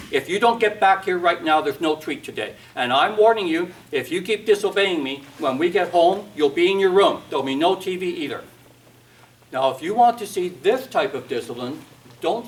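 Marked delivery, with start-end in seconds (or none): 0.1-8.4 a parent scolding loudly in the store; warning a child, voice raised, rushing the end. Retold or imitated. Parent threatens a misbehaving child in a store, raised voice. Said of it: "someone raising their voice".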